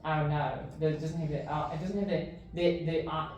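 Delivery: put-on New Zealand-style accent dropping final R's; put-on non-rhotic character accent. Player explaining his dropped R's, non-rhotic mock New Zealand accent. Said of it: "my dialogue is actually non-rhotic".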